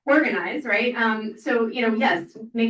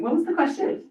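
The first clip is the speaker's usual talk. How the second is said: laughing; 10 semitones higher, 4 dB louder than usual. Real, not acted. Laughs at losing her thread.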